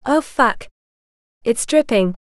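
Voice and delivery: mildly exaggerated shock; mock horror. A narrator's reading. Sister gasping at her brother's state, mock horror. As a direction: feign horror to tease. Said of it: "Alyssa gasped in mock horror".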